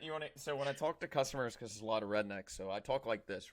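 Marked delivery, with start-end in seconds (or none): 2.5-3.5 demonstrating a mild Southern twang; a hint of Florida Southern accent; light Southern twang. Shown as a demonstration. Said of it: "a little bit of Southern twang".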